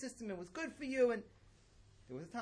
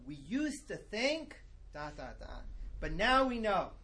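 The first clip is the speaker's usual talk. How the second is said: drawn-out think, then a louder now we know; mock the experts' certainty; smug know-it-all quote; 5 dB louder, slower than usual. Mimicking scientists who suddenly know it all, smug. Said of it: "a common phrase that we hear".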